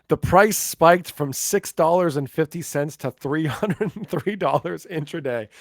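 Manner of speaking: amused laughing. Real, not acted. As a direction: read the news through a real chuckle. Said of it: "so that's why I'm laughing".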